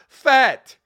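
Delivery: loud, high one-word mock Asian accent; sharp retold punchline in an imitated Asian accent. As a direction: blurt it in a put-on Asian accent. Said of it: "he uses an Asian accent".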